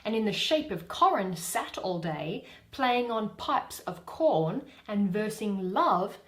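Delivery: Titania. Acted. Reading Titania's lines.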